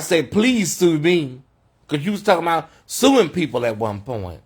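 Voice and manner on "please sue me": 一語ずつゆっくり挑発するように; slow taunting dare. Retold or imitated. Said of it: "That's why I said".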